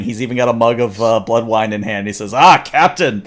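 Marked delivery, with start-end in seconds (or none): 2.3-3.2 lightly voiced hearty Klingon, louder; a touch of a boisterous Klingon leader's hail; laughing Klingon chancellor. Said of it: "he's just laughing".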